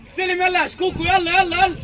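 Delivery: loud, high urging call; urgent shout. Real, not acted. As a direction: shout to hurry a teammate. Urging teammate during play.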